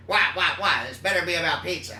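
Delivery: Chief Wiggum impression. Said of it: "Chief Wiggum?".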